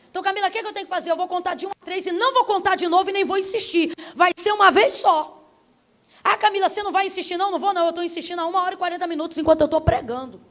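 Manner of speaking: fast, insistent preaching voice; forceful preaching. Real, not acted. Preacher warns she will not insist, forceful preaching. Preacher presses before altar call.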